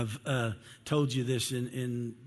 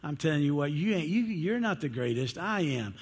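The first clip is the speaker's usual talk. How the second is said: boasting Peter; 6 semitones higher than usual. Retold or imitated. Peter brags to John that he's the greatest. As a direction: puff up like the rough fisherman claiming first place. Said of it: "Peter probably looks at him, he says".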